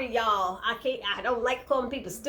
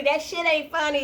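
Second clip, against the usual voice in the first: imitating Hannah; 6 semitones higher than usual. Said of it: "she said".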